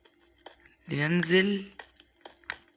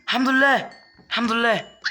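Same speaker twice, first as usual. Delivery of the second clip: relieved cry; 6 semitones higher than usual. Real, not acted. Gamer escaping danger, relieved high cry. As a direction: let the relief burst out.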